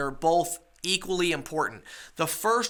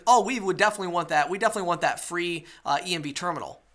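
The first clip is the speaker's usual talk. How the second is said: eager; faster than usual. Retold or imitated. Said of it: "The second way where he says".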